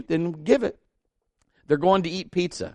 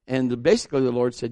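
normal talking voice

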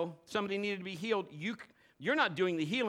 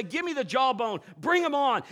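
bold challenge; 4 semitones higher, 6 dB louder than usual. Retold or imitated. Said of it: "somebody that'll say".

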